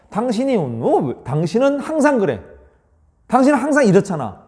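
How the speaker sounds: mock accusing wife, complaining; accusing complaint. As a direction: blame your spouse. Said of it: "you란 말을 쓰면서 지적하는 말".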